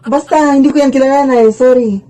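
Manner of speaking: put-on child caught lying to her mom; nervous denial. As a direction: deny it fast and anxiously. Child denying to mother.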